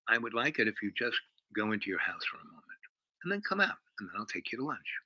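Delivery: soft, quick polite request; calm, mild guy. Retold or imitated. Mobster asks the girl to lunch, calm and mild. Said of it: "he goes from the calm, mild guy".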